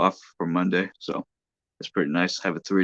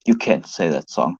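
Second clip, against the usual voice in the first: character voice; 7 dB louder, slower than usual. Acted. Retake of character line.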